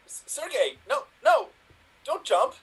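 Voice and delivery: panicked plea. Acted. Pleading with Sergei on the roof.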